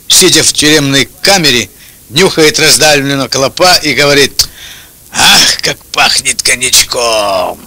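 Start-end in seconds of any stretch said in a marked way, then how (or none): 5.1-7.6 slow, low, dreamy relish; savoring sigh. Acted. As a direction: savor every word like fine cognac. Optimist savoring smell.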